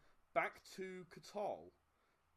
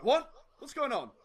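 confused shopkeeper; 7 semitones higher, 11 dB louder than usual. Acted. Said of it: "He's like".

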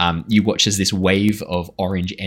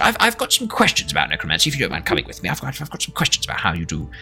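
high, eager inventor questioning; curious scientist; 8 semitones higher than usual. Acted. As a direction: press them keenly in a high voice. NPC voice held, high.

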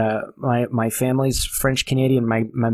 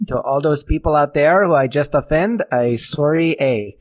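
put-on French Canadian accent; 2 semitones higher, 3 dB louder than usual. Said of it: "my French Canadian".

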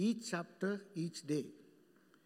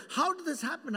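1 laughing question; 6 semitones higher, faster than usual. Real, not acted.

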